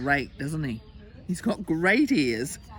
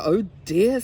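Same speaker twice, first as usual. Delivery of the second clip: loud storybook dismay; alarmed little boy; 3 semitones higher, 8 dB louder than usual. Acted. Little boy hearing tigers approach, loud dismay. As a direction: cry out in mild alarm.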